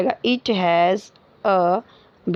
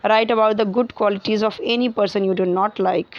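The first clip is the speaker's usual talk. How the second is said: slow, even classroom dictation; slow read-aloud; much slower than usual. Acted. Teacher reading a textbook question to the class, slowly. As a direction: read each word out slowly for students.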